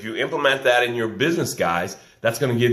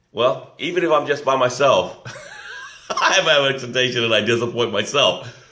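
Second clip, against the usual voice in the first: laughing at herself. Real, not acted. Laughs at own expectation.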